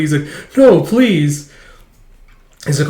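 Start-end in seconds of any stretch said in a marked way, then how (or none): 0.6-1.5 higher, louder bashful no; eager protest. Retold or imitated. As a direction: wave off the praise eagerly. Junior protesting modestly.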